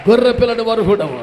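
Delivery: very loud, quick cry of worship; shouted praise. Acted. The elders bowing before the Lamb, shouting praise. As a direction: hit గొర్రె hard and shout it out fast.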